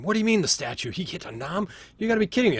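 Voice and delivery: loud, high outraged yelling; yelling giants. Acted. Giants yelling over each other in outrage. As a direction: shout it over the whole room. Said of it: "there's, like, yelling going on in the room".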